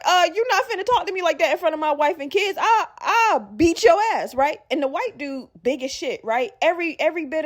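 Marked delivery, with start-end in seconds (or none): 0.0-4.3 a hint of the big dad's threat; mock tough dad. White dad threatening back.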